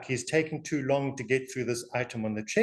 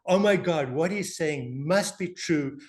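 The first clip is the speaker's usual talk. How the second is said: higher, drawn-out mock amazement; imitated awe; 3 semitones higher, slower than usual. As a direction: gush like an easily impressed listener. Imitates Americans awed by the accent.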